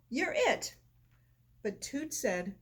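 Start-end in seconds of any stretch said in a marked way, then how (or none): 0.1-0.8 high call to a friend. A narrator's reading. Puddle tells Toot he's it, calling out. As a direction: tag him with a call. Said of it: "Puddle called".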